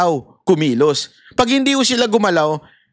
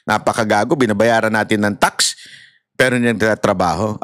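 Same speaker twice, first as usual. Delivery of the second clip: much lower, grumbling angry rant; angry complaint; 11 semitones lower than usual. Pretend. Angry citizen complaining about a lazy policeman, low grumbling. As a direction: curse the useless cop under breath. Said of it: "Sasabihin natin".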